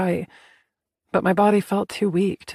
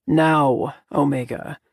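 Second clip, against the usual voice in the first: commanding; 4 semitones lower, slower than usual. A narrator's reading. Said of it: "that tone ... alpha out of patience".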